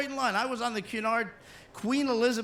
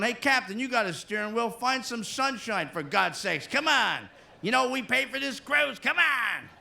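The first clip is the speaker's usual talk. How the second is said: yelling American; 5 semitones higher, slower than usual. Retold or imitated. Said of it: "Americans are yelling and screaming".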